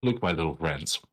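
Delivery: talking through a mouthful of bread; words round a bite of bread; mouth full. Real, not acted. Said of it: "I have bread in my mouth".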